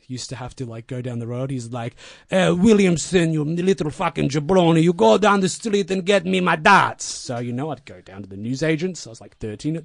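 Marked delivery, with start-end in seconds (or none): 2.3-7.0 bossy mentor. Retold or imitated. Lou ordering kid to get smokes.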